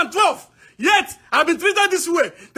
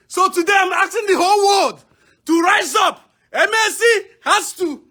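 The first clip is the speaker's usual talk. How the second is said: shouting; slower than usual. Real, not acted. Protester calling on the world.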